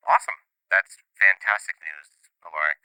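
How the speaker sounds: dry, unimpressed sarcasm; sarcastic. Acted. Ally reacting to lost fragments, sarcastic. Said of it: "picking up some sarcasm".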